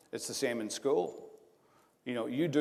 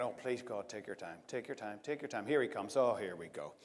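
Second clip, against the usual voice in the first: murmured under the breath, much softer; a nervous private plea to God, barely voiced; hushed prayer; 4 semitones lower, 8 dB quieter than usual. Reporter praying Tiger takes his time, softly murmuring. Silent prayer while waiting on camera.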